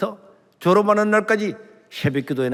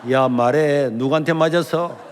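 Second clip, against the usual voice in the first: louder, demanding interrogation; stern teacher; 4 dB louder than usual. Retold or imitated. Teacher demands who hit the student, stern and louder. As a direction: press him for an answer.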